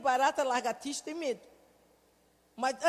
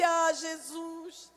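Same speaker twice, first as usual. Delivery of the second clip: slow, tender prayer rising to a loud cry; 2 semitones higher, 5 dB louder, slower than usual. Retold or imitated. Mother praying over the weeping son, tender then swelling. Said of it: "eu só disse".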